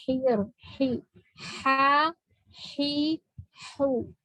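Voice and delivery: don't jump straight into the vowel of "hi"; sustained consonant sound. Shown as a demonstration. Teacher showing rakhawah to students, sustained h onset. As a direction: let the h sound before the vowel in "ha, hi, hu". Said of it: "Nah, jadi ada suara".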